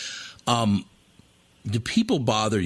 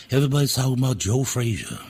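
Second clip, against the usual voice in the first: higher-pitched boxer's boast, imitated; Muhammad Ali; 4 semitones higher than usual. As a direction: do the famous boxer's voice. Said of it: "like, Muhammad Ali".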